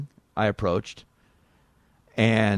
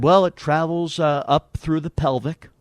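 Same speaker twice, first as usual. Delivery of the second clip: higher, put-on earnest explainer; Dan Quayle; 5 semitones higher, slower than usual. Quayle explains his blood clot to caller, higher put-on voice. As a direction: raise the pitch and explain haltingly. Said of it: "And he said".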